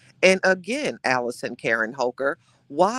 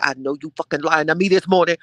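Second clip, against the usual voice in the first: playful disbelief; 6 dB louder than usual. Real, not acted. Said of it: "reacting to a viewer's comment".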